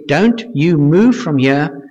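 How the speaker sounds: slow, deliberate order to stay put; firm command. Retold or imitated. Father to his teenagers in chaos, slow firm command. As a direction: spell it out so they won't budge.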